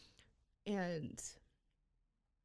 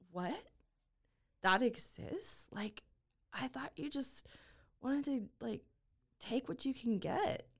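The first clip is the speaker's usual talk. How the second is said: shocked disbelief; 5 semitones higher than usual. Retold or imitated. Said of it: "I was shocked".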